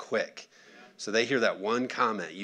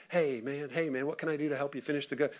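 softer, quick, friendly offer of help; lightly acted encouragement; encouraging; 2 semitones higher, 5 dB quieter than usual. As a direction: imitate a supportive boss checking in. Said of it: "as soon as it comes in encouraging".

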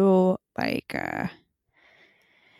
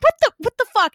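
stunned disbelief; 10 semitones higher, 3 dB louder, faster than usual. Retold or imitated. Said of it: "And I'm like".

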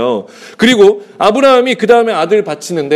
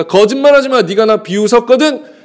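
mildly acted scolding, pitched up; a touch of accusation in a retold rebuke; accusing rebuke; 3 semitones higher than usual. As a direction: call out the lie. God's rebuke to Sarah acted out.

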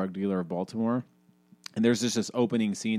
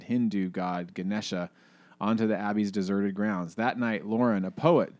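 excited reading of a book passage; reading aloud. Acted. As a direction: read the passage to your friend. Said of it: "So listen to this".

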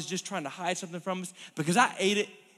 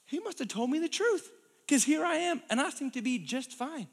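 lightly raised, pleased Eve; voicing Eve; 3 semitones higher than usual. Eve telling herself she's fine, lightly voiced. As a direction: sound surprised you're still fine.

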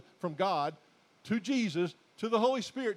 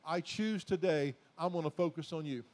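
prayer. Shown as a demonstration. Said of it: "It's time to say".

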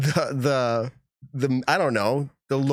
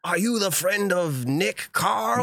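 higher, slow, badly faked New Zealand accent; attempted New Zealand accent; 6 semitones higher, much slower than usual. Host imitates a New Zealand fan, bad New Zealand accent. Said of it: "I can't do the New Zealand accent".

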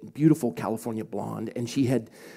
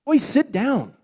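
mother's raised, high-pitched command; sharp order; 10 semitones higher, 8 dB louder, slower than usual. Retold or imitated. Mother telling her husband to sit, raised-voice order. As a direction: order him down, loud and high.

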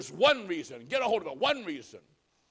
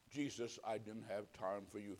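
mock shamed excuse; 8 semitones lower, 14 dB quieter than usual. Imagined excuse before Christ.

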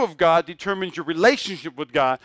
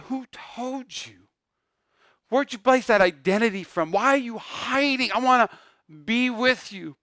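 tender God; 5 semitones higher than usual. Retold or imitated. God gently questions hiding Adam.

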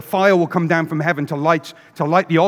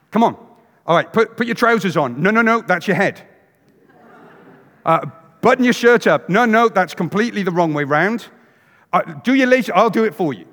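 put-on louder, exasperated parent hurrying a child; bossing a dawdling kid, louder; harried parent; 3 semitones higher, 4 dB louder than usual. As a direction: parent late for church, impatient commands.

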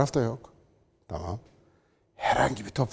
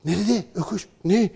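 baffled voice rising higher, ending in a loud high squeak; mock confused critic; 8 semitones higher, 5 dB louder than usual. Commentator mocking a critic who googles the words, baffled and rising. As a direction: play a lost man puzzling over old Turkish words. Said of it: "Google'a yaz şimdi böyle yazacak".

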